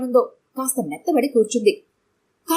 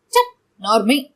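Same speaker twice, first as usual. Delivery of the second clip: angry hush; slower than usual. Acted. Angry wife silences husband. (ఎత్తైన స్వరంతో కోపంగా అదిలించడం)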